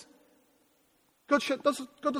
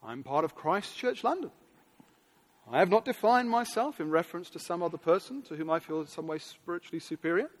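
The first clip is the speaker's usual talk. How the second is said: defensive churchgoer; 6 semitones lower than usual. Retold or imitated. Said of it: "you say to yourself".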